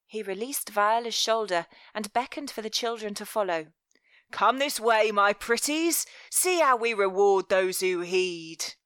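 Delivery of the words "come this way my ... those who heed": oily, coaxing louder villain; velvet voice. Acted. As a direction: sweet-talk them like a predator. Master Velvet lures the children.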